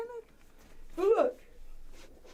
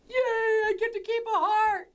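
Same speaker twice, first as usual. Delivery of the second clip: excited; 6 semitones higher, 3 dB louder than usual. Real, not acted. Delighted to keep balloon.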